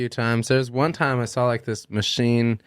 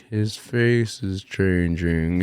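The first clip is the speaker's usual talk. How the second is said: slow, stretched-out faraway voice; distant voices; 2 semitones lower, much slower than usual. Retold or imitated. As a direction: imitate friends heard from far away. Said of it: "sounded like they're really far away".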